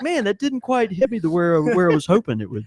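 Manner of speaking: lightly voiced laid-back stoner; mellow dreamy hippie. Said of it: "that's my hippie voice".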